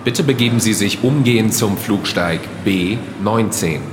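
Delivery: calm, formal gate call; airport announcement. Acted. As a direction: announce it over the terminal speakers.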